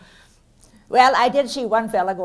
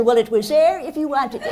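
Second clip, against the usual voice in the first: mock deadpan comeback; 4 semitones higher than usual. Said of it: "I said".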